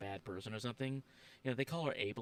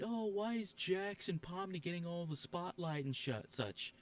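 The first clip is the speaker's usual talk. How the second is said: whiny complainer mimic; 4 semitones higher, slower than usual. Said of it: "people complain".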